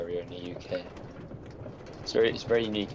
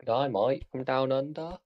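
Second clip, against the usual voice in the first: higher put-on Australian greeting; Australian accent; 4 semitones higher, slower than usual. Friend greeting from down under, Australian accent. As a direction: hail them as a mock Aussie. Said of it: "trying to emulate the Australian accent".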